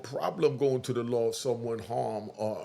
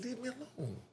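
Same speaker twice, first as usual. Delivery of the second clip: mock lawyer; 10 semitones higher, 10 dB quieter than usual. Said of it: "He said".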